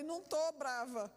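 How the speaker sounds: playfully imitated cross retort; mock angry denial. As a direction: deny it crossly, stretching the words for comedy. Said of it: "você tá brava".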